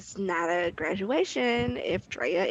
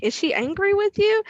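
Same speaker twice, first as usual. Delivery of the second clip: worried classmate; 10 semitones higher, 5 dB louder than usual. Retold or imitated. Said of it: "It's supposed to be like".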